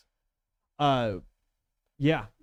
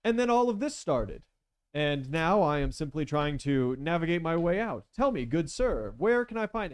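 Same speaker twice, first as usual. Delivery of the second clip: lightly voiced courteous rogue, higher; polite gentleman villain; 4 semitones higher than usual. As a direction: feign innocence with fussy politeness.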